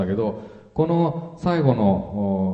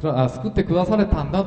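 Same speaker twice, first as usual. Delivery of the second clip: confident; 4 semitones higher than usual. Retold or imitated. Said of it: "という確信に満ちてますね".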